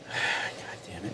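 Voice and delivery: breathy, very soft curse on a sigh; exasperated mutter. Acted. Driver blinded by a cop's flashlight, exasperated mutter. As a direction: sigh it out under your breath, drawn out.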